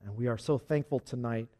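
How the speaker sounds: earnest, measured prayer in phrases; congregational prayer. Real, not acted. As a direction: lead the congregation in prayer, leaning on key words. Leads closing prayer.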